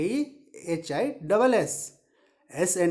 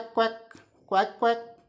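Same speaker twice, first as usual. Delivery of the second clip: duck quack. Shown as a demonstration. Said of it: "duck की आवाज़ कैसे निकलती है".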